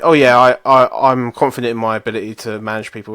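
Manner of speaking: mildly cocky, self-assured boast; retold overconfident interview answer; arrogant. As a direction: play up a touch of arrogance. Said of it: "I come across as an arrogant dickhead".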